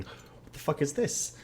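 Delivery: unvoiced, slowed whisper; hushed imitation of a puzzled newcomer; mock bewildered viewer. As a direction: whisper the confused question. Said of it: "you're probably wondering".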